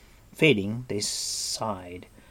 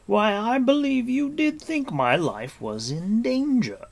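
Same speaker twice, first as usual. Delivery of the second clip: high, wondering realization; dawning surprise; 13 semitones higher, 5 dB louder than usual. A narrator's reading. Gwydion realizing Taran feared for him, surprised. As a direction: let astonishment lift the pitch.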